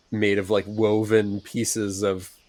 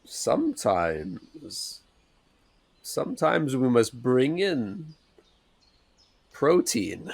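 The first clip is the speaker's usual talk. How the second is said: thoughtful; 3 semitones higher, 3 dB quieter, much slower than usual. Acted. Bruce musing about food while staring her down, slow and thoughtful. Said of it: "kind of thoughtful noise".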